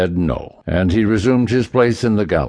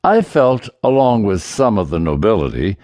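put-on higher, raised voice of a pompous old duke; 4 semitones higher than usual. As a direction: puff up like a self-important noble. Duke pleads his case.

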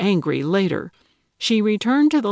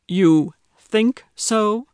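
higher, louder, slow disbelieving echo; incredulous echo; 3 semitones higher, 4 dB louder, much slower than usual. Acted. Grumpy neighbor echoing her doubt, slow and incredulous. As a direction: stretch it out in open disbelief.

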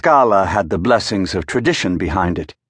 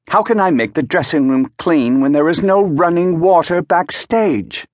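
valet voice; 9 semitones higher than usual. A narrator's reading. Valet complains, voiced high.

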